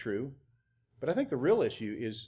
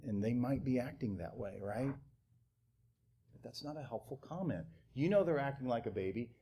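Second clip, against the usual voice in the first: ordinary talk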